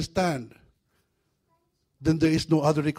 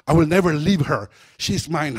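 retold demon; 7 dB louder than usual. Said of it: "the demon starts speaking".

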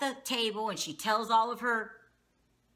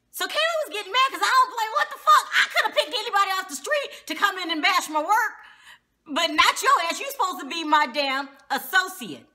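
high, loud, half laughing in disbelief; outraged laughing rant; 8 semitones higher, 4 dB louder than usual. Acted. To viewers, outraged at Tiffany, high and laughing. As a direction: fume and laugh at the betrayal at once.

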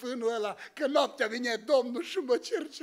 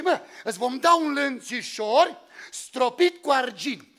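tempting offer; 5 dB louder than usual. Retold or imitated. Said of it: "Îi dă oferte, zice".

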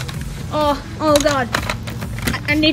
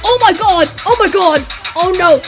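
alarmed shouting; 3 dB louder than usual. Pretend. Toys under fire.

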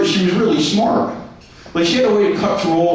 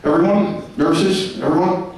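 lower, scornful doctor to the nurses; lightly voiced doctor, lower and disgusted; mock doctor; 5 semitones lower than usual. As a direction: sneer at the patient's dirty underwear.

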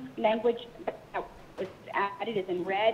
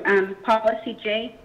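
choppy phone line. Real, not acted. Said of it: "choppy again".

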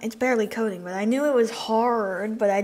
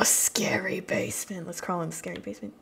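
spooky whisper; 2 semitones lower, 4 dB quieter than usual. Acted. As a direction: whisper it like a ghost story.

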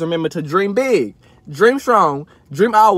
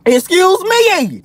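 indignant excuse me; 10 semitones higher, 3 dB louder, much slower than usual. Real, not acted. Offended rant about package notices.

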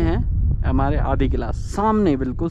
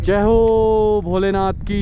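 devotional call; 4 semitones higher, 3 dB louder, much slower than usual. Real, not acted. Devotional call at holy lake.

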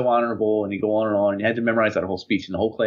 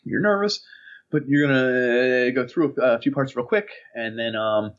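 nervous, stilted talk. Retold or imitated. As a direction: mimic a stalling nervous speaker. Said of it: "talk like this".

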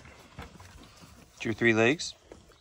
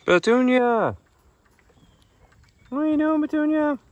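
calling out; 13 semitones higher, 5 dB louder than usual. Real, not acted. Calling pig.

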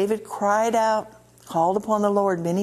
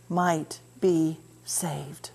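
whisper; 4 semitones lower, 4 dB quieter, much slower than usual. Acted. Verse ends in whisper.

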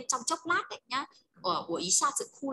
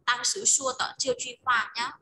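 当时说的这句话 said slowly with 当 stretched; slow teacher demo of the phrase; slow and clear; 5 dB louder, slower than usual. Shown as a demonstration.

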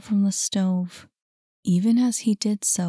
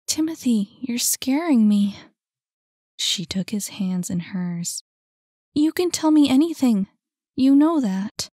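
higher, louder, urgent; higher anxious young woman voice; worried Saphira; 4 semitones higher, 4 dB louder than usual. A narrator's reading. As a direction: press him to open up.

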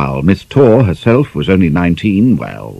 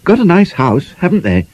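envious; 11 semitones higher than usual. A narrator's reading. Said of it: "Quarnion said enviously".

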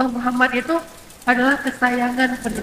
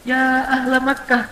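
calm measured call; much slower than usual. Shown as a demonstration. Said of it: "Yang beda justru khatib".

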